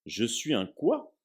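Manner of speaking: slow, faltering question; stammered. Acted. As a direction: stammer in disbelief. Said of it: "balbutia Harry".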